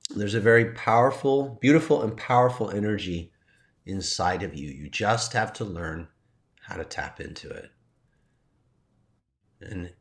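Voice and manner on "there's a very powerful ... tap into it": soft tone. Retold or imitated. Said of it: "in a softer tone".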